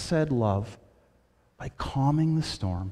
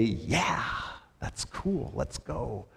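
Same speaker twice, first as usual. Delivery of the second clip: casual hushed reply; 5 semitones lower, 10 dB quieter, much slower than usual. Pretend. His own imagined casual reply.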